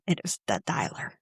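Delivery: put-on "dialer" drawled low and soft in a thick Virginia accent, meaning dollar. Imitating the Virginia store clerk saying "dialer" for dollar, thick Virginia accent. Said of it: "And that's how she said it".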